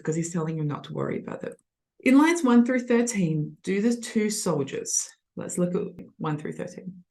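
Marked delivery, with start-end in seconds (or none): none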